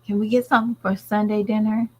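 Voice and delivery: put-on high, eager kid voice; kids asking. Kids asking their mother about dinner, mock high voice. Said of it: "My kids was like".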